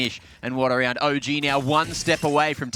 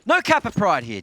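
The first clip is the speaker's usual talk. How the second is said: higher, louder mock telling-off; hammed-up scold; 6 semitones higher, 5 dB louder than usual. Mock outrage continues.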